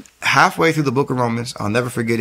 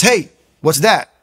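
higher, louder, slow call to a stranger; 6 semitones higher, 5 dB louder, slower than usual. Retold or imitated. Dog walker stops a man with a Bible, calling out. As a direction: hail someone as a passing stranger would.

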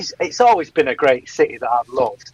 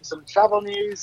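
mock high voice; 6 dB quieter, slower than usual. Mocking what listener wanted.

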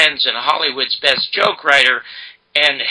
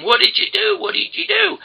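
high-pitched frantic demand, much higher; retold screaming. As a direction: shriek it back at him in disbelief. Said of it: "I started screaming at him".

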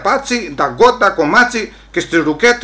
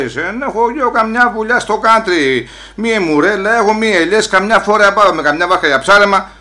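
raised, higher-pitched protest; indignant shouting; 5 semitones higher, 5 dB louder than usual. Acted. Immigrant told off for screaming answers back, indignant shouting. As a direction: protest loudly to the officer. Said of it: "Μη φωνάζεις έτσι".

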